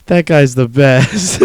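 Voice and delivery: slow, gushing mock awe; imitating sudden love for the turtle saver; lightly played swoon over the turtle saver; gushing adoration. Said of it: "fiery hatred to".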